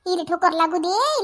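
slow drawn-out fatherly warning; quoting her father. Retold or imitated. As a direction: stretch out इले ठोकर लागू दे slowly, like the father laying down the law. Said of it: "तिचे बाबा बरोबर म्हणतात". (वडिलांची नक्कल, सावकाश ओढून)

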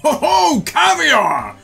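high gleeful exclaim; delighted. Acted. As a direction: squeal with delight over food. Judge delighted by caviar.

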